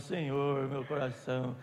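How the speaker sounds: oração íntima. Retold or imitated. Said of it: "vai lá no quarto e diz".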